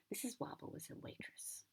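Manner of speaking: soft whispered read of the line; whispering. Shown as a demonstration. Re-reads the opening line.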